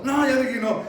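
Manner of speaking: high, loud angry no; exasperated refusal. Acted. Father refusing his insistent child, exasperated. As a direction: shut the pleading down loudly.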